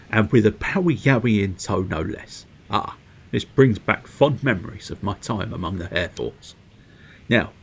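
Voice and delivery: lightly voiced, courteous storybook elder; genteel game character. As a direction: read it as a formal, musing companion. Reads game character's dialogue.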